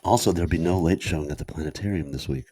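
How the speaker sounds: deadpan community announcement in mock radio voice; mock NPR announcer. Co-host capping the lyric reading with a notice, dry announcer parody.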